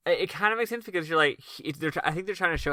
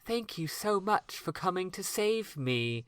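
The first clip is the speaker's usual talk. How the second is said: eighties anime dub voice; 3 semitones higher, 7 dB quieter, slower than usual. Retold or imitated. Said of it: "eighties American anime dub voice".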